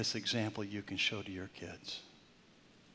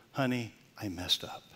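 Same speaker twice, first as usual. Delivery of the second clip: right way. Shown as a demonstration. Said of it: "Bite the bullet".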